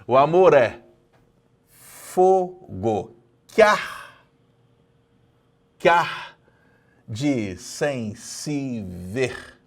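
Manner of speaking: verse stretched out syllable by syllable; teacher counting syllables aloud; syllable count, very slow. Shown as a demonstration. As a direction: count each poetic syllable slowly. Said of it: "Eu tenho dez sílabas poéticas".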